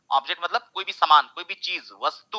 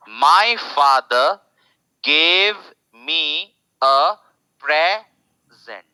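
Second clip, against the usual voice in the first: louder slow teacher read; loud, slow demo; 5 dB louder, much slower than usual. Shown as a demonstration. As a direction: present said loud, PRE stressed, very slow. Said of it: "इतना loud बोल रहा हूं".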